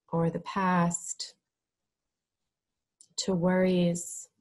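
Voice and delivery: measured, calm instruction with space to breathe; guided meditation. Real, not acted. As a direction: lead them gently into stillness, phrase by phrase.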